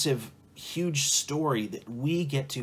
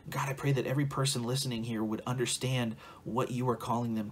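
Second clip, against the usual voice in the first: steady, evenly pitched spoken prayer. Real, not acted. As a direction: pray aloud for the listeners in a running, earnest flow. Leads a closing prayer.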